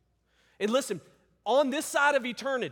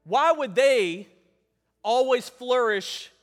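pleading lament; 3 semitones higher, 9 dB louder than usual. Retold or imitated. Voicing a believer's lament to God.

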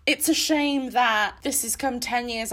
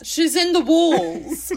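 high, slow, giggling; laughing spooky joke; 5 semitones higher, 4 dB louder, slower than usual. Acted. Joking to cohost that McGonagall haunts the book, laughing. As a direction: say it like a ghost story while laughing.

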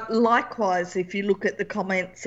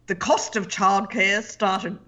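put-on grumpy old man voice; slower than usual. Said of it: "I've adopted a grumpy old man's voice".

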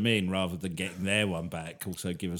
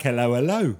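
mock French hello; 2 semitones higher, 8 dB louder than usual. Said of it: "It was like".

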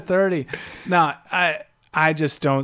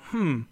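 thoughtful hmm; 4 dB quieter than usual. Retold or imitated. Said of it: "makes me go".

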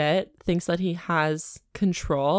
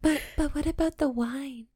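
mocking heroine; 7 semitones higher, 5 dB quieter than usual. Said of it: "mocking the heroine's line".

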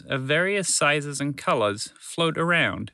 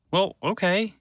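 grumpy; 5 semitones higher, slower than usual. Acted. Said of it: "Walter replied grumpily".

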